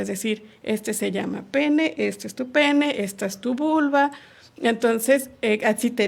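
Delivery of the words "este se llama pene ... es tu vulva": slow naming. Shown as a demonstration. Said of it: "Las partes del cuerpo son muy importantes".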